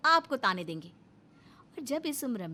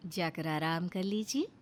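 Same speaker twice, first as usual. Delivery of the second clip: ordinary delivery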